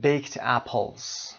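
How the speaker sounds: baked apples run together slowly; baked apples said as one word; linked baked apples. Shown as a demonstration. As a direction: link baked into apples, slow. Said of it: "ببینید، baked و apples".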